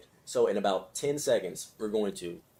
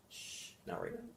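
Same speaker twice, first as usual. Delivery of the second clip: gentle whispered hush; whispered shush; 14 semitones higher, 14 dB quieter than usual. Shown as a demonstration. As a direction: breathe it out as a soft whisper. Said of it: "just gently say".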